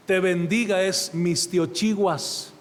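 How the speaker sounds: Mistiochiguas dicho lento, sílaba por sílaba; pronunciación náhuatl. Shown as a demonstration. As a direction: pronuncia Mistiochiguas despacio y con cuidado. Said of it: "No sé si yo la diga correcta". (intento de pronunciar Mistiochiguas en náhuatl)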